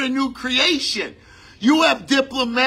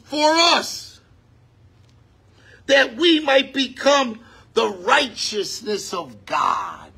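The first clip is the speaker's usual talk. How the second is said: fervent preaching. Acted. Preaching at full force.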